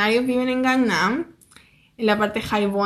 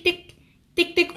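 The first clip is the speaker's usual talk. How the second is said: small, higher beeps; imitated scooter horn; 5 semitones higher, 3 dB quieter, slower than usual. Imitating the old man honking his horn, little beeps. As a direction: mimic a feeble horn beeping. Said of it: "tocar su bocina así como".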